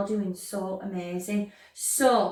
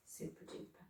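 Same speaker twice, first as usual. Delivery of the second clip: whispered, very soft praise; hushed praise; 24 dB quieter than usual. Real, not acted. Teacher praising the class after moving a letter, whispered. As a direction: whisper it softly, almost to yourself.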